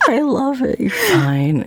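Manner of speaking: high squeaky flustered laugh; flustered surprise. Real, not acted. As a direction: caught off guard and giggling. Shocked by sudden "I love you.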